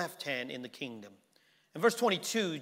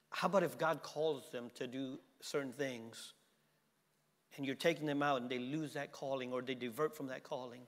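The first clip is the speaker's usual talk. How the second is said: much softer, lower retelling; soft storytelling; 3 semitones lower, 7 dB quieter than usual. Real, not acted. Pastor recalling a mother's words, softly. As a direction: hush it down and confide.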